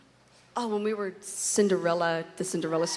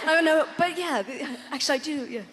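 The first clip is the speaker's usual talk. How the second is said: laughing; 8 semitones higher, 3 dB louder than usual. Real, not acted. Laughing through answer.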